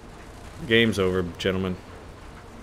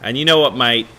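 badly faked British soldier's accent; terrible British accent. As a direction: put on a hammed-up British accent. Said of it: "that's just a terrible accent".

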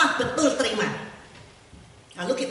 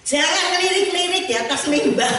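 mock critic; 9 semitones higher, 9 dB louder than usual. Quoting the critics at seminary.

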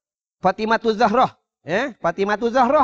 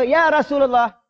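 higher pleading voice of a stone; a stone begging the Prophet for mercy; talking stone pleading; 5 semitones higher than usual. Acted. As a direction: voice the stone higher, earnest and imploring. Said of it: "Ini batu ni bercakap, dia kata apa?".

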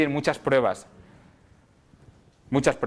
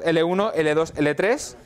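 slow, spaced-out listing; slow emphasis; slower than usual. Shown as a demonstration. Teacher repeating the levels to the class, slow. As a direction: draw each level out for the class. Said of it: "pero fijaros".

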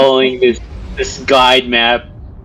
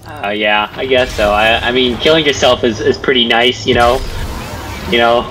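low, deadpan mock praise; deadpan sarcasm; 4 semitones lower than usual. Real, not acted. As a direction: praise it drily, in a lowered voice. Mock praise of the hated game.

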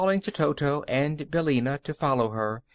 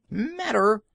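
indignant, higher and louder; outraged at the question; a mild indignant outburst; indignant cry; 8 semitones higher, 3 dB louder than usual. A narrator's reading. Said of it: "cried a Rye loafer indignantly".

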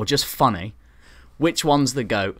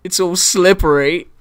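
a lightly voiced quote, rising up at the end; movie line quote; 4 semitones higher, 3 dB louder than usual. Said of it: "and he says".

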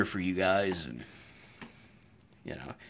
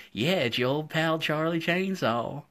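playful reveal; 8 semitones higher, 4 dB louder, slower than usual. Retold or imitated. Proudly revealing himself to fan.

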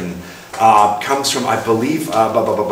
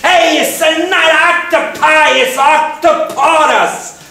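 much higher, slow smug correction; know-it-all friend; 4 dB louder, slower than usual. Retold or imitated. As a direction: lecture like a tactless know-it-all. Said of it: "who just was insensitive".

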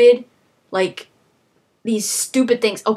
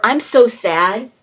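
louder, like a stiff game hero; mock same-tone line; 6 dB louder, slower than usual. Mocking Deus Ex hero's unchanging delivery, loud. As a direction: say it loud, same tone whatever the words. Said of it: "It's the same thing".

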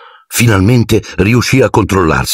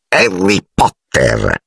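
piercing elf voice; much slower than usual. A narrator's reading. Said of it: "con voce così acuta da trapanare i muri".

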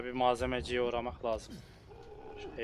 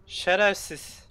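drawn-out yelled curse; 6 semitones higher, 8 dB louder, much slower than usual. Real, not acted. Cursing the killer harder.

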